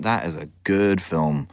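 slow, low, lightly imitated actor; Sean Connery. Star gives producer his verdict, slow and lightly imitated. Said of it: "I'm not gonna do my bad Sean Connery accent".

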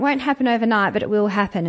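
a light imitation of an ad catchphrase; Rachel Hunter catchphrase. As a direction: quote the old ad slogan lightly. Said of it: "as Rachel Hunter used to say".

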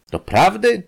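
high, loud astonished "really?"; surprised exclamation. A narrator's reading. Industrialist hearing the lady loves him, surprised cry. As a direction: cry out in disbelief. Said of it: "zawołał przemysłowiec".

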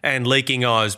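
blocked nose from hay fever; nasally, stuffed-up voice. Real, not acted. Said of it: "as you can hear by my nasally voice".

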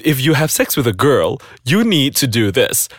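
impression of dad. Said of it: "That's my impression of my dad".

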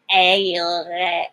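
exaggerated Chicago vowel; mock Chicago "Ay"; Chicago accent. Summing up mom's speech, exaggerated Chicago accent. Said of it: "it's just very, like".

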